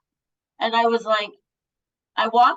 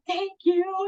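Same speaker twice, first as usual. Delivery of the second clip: smiling thanks; 9 semitones higher than usual. Retold or imitated. Retold smiling girl thanks her.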